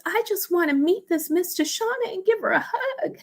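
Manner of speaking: very high, laughing and tearful; real laughter and emotion; laughing through tears. Real, not acted. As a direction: barely hold it together.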